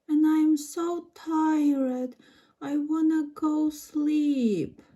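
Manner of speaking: slow, drawn-out pretend weariness; tired guest. Guest tells the host she wants sleep, slow and weary. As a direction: play a worn-out visitor dragging the words.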